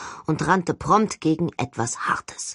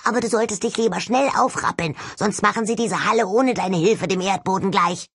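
high, mocking skull voice; gloating skull voice; 4 semitones higher than usual. A narrator's reading. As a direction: taunt her with glee. Talking skull taunts narrator.

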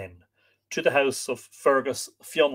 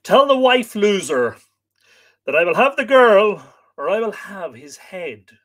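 commanding shout; 7 semitones higher, 10 dB louder than usual. Acted. Fionn's command.

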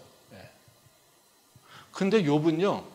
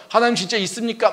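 loud, pleading outcry, higher and faster; anguished complaint to God; 7 semitones higher, 7 dB louder than usual. Retold or imitated. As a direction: cry out to God like a sufferer who feels wronged. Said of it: "막 이러고 있는데". (하나님께 울부짖듯 크게 원망하며)

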